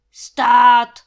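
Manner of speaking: huge bellowed halt; roar. A narrator's reading. Landlord roaring at Kuba who nearly knocks him over. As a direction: roar it out to stop the cart. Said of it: "zařval Trautenberg".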